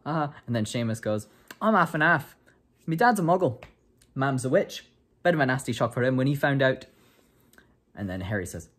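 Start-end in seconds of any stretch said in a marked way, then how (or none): 1.6-6.9 higher, louder chatty schoolboy; boy at feast. Retold or imitated. Seamus tells new classmates about his parents, cheerful and loud. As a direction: brag cheerfully to your new friends.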